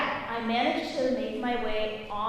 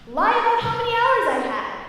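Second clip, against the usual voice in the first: dad's advice; 10 semitones higher, 7 dB louder than usual. Retold or imitated. Dad gives fatherly advice.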